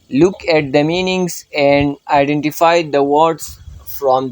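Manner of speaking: slow, deliberate reading of the instructions; careful classroom read-aloud; slow textbook reading. Shown as a demonstration. Teacher reads textbook instructions aloud.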